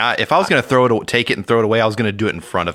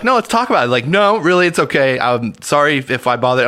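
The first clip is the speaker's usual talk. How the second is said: high mock-sweet come-on; 5 semitones higher, 3 dB louder than usual. Robed man teasing fleeing visitors, high mock-sweet. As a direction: pitch up high, loud, sugary and fake.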